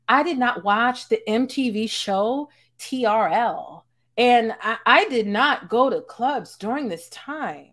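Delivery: lightly voiced white girl impression; a singer's voice. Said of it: "let me put on the singer's voice".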